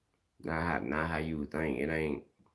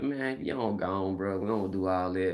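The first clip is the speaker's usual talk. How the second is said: exasperated telling-off; 3 semitones higher than usual. Retold or imitated. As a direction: wave a friend off, fed up, pitch raised. Retold telling-off of a friend.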